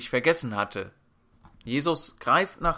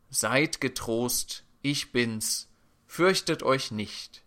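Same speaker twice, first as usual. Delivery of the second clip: slow, measured words of comfort; calm reassurance; slower than usual. Acted. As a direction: reassure the frightened, unhurried. Jesus quoted calming frightened disciples. (langsam und beruhigend)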